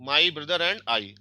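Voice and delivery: slow model phrase. Shown as a demonstration. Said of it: "English में क्या बोलते हैं?".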